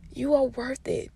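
breathy soft whisper. Real, not acted. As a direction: whisper it like a secret blessing. Affirmation whispered softly.

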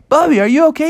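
high-pitched cartoon cub checking on a pal; worried friends. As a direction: call out in a high kid-like voice. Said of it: "everybody's like".

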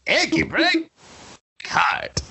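put-on half-sung, drawn-out broken-English accent; imitating broken-English singer. Friend recalls the guitarist's karaoke, mimicking his accented singing. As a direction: mimic a foreign singer mangling the lyrics in a heavy accent. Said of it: "his English wasn't great".

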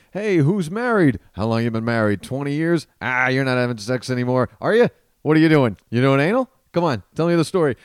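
high, loud, nosy host grilling the crowd; hammed-up needling of a married couple; pushy crowd-work host. Host pesters a married couple in the crowd, loud and high. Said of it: "if a host goes".

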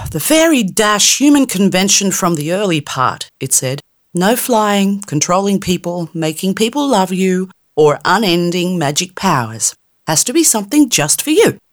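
weary rude fairy. Acted. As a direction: rattle off the rules like a bored tiny official. Fairy reciting rules.

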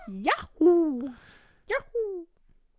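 high cheery yahoo call; Yahoo cry. Pretend. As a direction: whoop it out high. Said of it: "not my best Yahoos".

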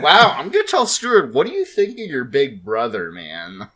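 mock outrage. Mock shock at brother remark.

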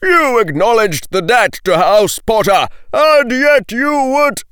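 high, loud indignant voice, cut off; rising fury then cut off; outraged protest. Acted. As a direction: bystander accusing Malfoy in court. Outraged voice continues.

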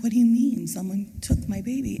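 a mother's stunned, angry question; angry disbelief. Retold or imitated. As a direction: demand it like the news just hit. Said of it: "So I was so angry".

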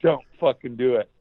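firm warning in mock English accent; bad fake English accent. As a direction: warn them in a dodgy English accent. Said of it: "really bad fake English accent".

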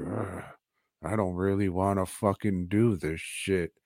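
lightly voiced reluctance, in own pitch; grudging mock protest from the actress; reluctant girl. Imitating little girl facing the kiss scene, reluctant. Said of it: "you can tell it's all reluctant".

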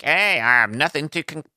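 lightly voiced pompous wit; a hint of a self-important dandy; pompous Oscar Wilde. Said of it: "with his, like".

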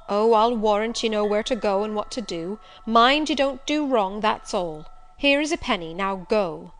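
loud, brusque servant at the door; wary servant, dismissive. Acted. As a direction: send the beggar off with a firm scolding. Wary servant sends beggar away.

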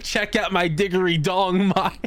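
hammed-up Australian accent; laughing through a bad Australian accent; mock Australian. Host teases groaning friends with a crude joke, mock Australian.

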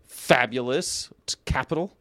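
drawn-out British accent, parroting the guest. Real, not acted. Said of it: "You get very British whenever I speak to you".

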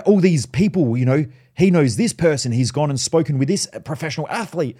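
imitating a mum's excited bragging; proud mum. Mum brags about who her son knows, imitated excited pride. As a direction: boast about him, lightly hammed-up. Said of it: "she's so fucking proud of me".

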